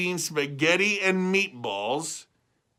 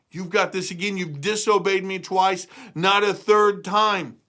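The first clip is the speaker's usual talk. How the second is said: stern mom; 4 semitones higher, 3 dB louder than usual. Acted. Mom scolds Jack.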